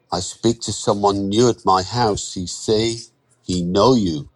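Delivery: lightly voiced worried foreign worker; a hint of foreign accent, hesitant and wary; uneasy Andre. Worker warily telling his lender about the newcomer, uneasy.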